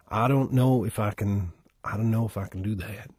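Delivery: tentative Southern accent. Shown as a demonstration. Performer doubting he can do it, Southern accent. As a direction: try out a Southern voice. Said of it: "get into my Southern accent".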